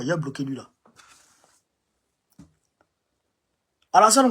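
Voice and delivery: shouting. Real, not acted. Live speaker shouting to followers.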